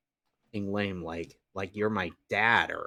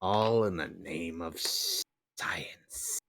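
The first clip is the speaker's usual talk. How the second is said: hissing snake voice trailing off; 3 semitones lower, 5 dB quieter, slower than usual. Acted. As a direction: hiss out science like a serpent. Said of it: "I had to do the snake voice".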